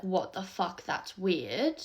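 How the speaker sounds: voiced out openly, only mildly loud; retold quite loud. Mum remarking within the man's earshot, retold quite loud. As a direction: imitate mum saying it aloud, no whisper. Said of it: "like, quite loudly".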